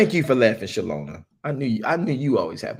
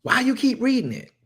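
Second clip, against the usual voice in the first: much higher voice imitating a questioning listener; mock congregant complaint; 13 semitones higher than usual. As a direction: mimic a complaining churchgoer, pitched way up.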